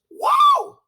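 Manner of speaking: squeaky high shouted whoa; whoa, leaping up in pitch; mock amazement. Real, not acted. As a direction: exclaim in exaggerated awe. Exclamation about Green Mountain Boys.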